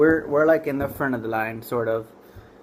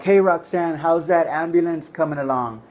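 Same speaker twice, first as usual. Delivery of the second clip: raised, higher call to partner; calling over; 3 semitones higher than usual. Retold or imitated. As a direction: call across the store for an update.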